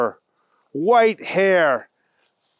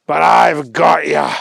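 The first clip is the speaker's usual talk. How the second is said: loud; 6 dB louder than usual. Acted. Agent arrests old lady.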